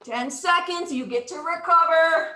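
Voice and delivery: lightly imitating a strict sergeant calling time; drill sergeant. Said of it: "says the drill sergeant".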